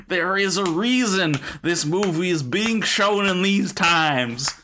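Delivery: put-on creaky old-timer reading a review; old prospector. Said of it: "slipping into his old prospector voice".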